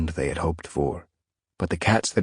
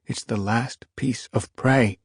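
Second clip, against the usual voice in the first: protesting she-cat; 6 semitones higher than usual. A narrator's reading. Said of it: "the she-cat protested".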